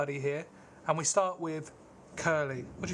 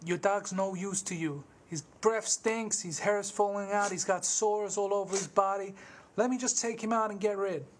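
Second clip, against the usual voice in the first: pushy farmhand; 5 semitones higher than usual. Acted. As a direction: talk the old man into it, pushing. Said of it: "so the scene plays something like this".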